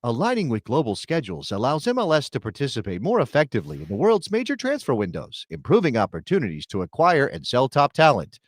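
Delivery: corporate announcer read. Shown as a demonstration. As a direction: read it like a corporate training video. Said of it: "I'm gonna do this in my announcer voice".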